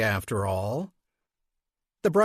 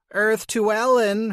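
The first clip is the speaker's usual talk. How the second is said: calling out; 7 semitones higher than usual. Acted. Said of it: "her mom called".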